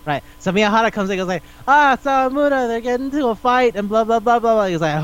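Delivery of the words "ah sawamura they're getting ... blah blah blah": high-pitched imitation of a panicky friend; mock alarm. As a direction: burst in babbling the news, hammed up. Imitates friend bursting in with news.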